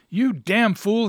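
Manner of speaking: high, loud exasperated shout; angry shout. A narrator's reading. Husband to the pal caught with his wife, shouting. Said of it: "he shouted".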